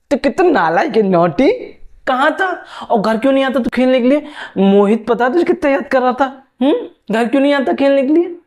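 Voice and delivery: put-on a neighbour auntie coos and scolds the kid; fussing auntie. Auntie scolding child playfully.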